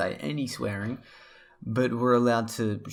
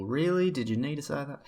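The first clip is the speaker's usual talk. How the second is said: mock disbelief; 4 semitones higher than usual. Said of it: "they'll react and like".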